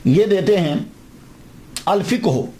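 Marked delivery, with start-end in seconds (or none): 1.9-2.4 "الفقہ ہو" carefully as al-fiq-hu; dictionary pronunciation. Shown as a demonstration. Lecturer reading out the dictionary's form, "الفقہ ہو" as al-fiq-hu. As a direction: read "الفقہ ہو" with no vowel after the q. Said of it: "انہوں نے کیا pronunciation جو ہے وہ دیا".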